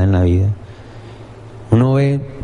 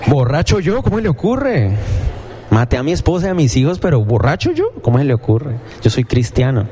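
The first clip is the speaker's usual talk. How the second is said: mock indignant killer; 2 semitones higher than usual. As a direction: play the murderer acting scandalized. Imita al asesino indignado. (asesino fingiendo indignación, burlón)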